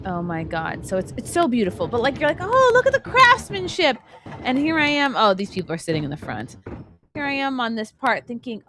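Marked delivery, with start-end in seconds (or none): 2.4-4.0 high, gushing rider's 'oh look'; mock admiration. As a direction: coo in exaggerated wonder.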